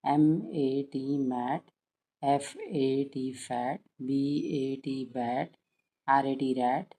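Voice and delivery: teacher spelling slowly for parents to copy; slow spelling drill. Shown as a demonstration. Teacher shows parents how to spell out rhyming words slowly. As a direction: spell each letter out slowly, then say the word. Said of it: "ऐसे लिखिए".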